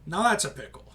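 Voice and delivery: mock Australian accent whispered; hushed, half-hearted Aussie voice. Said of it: "I don't do a good Australian accent".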